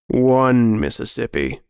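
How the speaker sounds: slow, drawn-out count; menacing countdown. Acted. Friend counting down before the hunt, slow menace. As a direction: stretch out the number as a threat.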